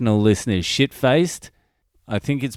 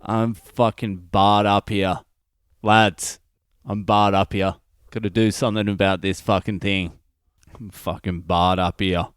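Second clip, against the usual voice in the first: relishing repeat. Shown as a demonstration. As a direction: replay the funny line with relish. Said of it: "that's a fucking funny line".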